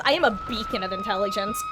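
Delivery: very high squeaky mocking voice; high silly voice. Real, not acted. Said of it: "repeats the line in another voice".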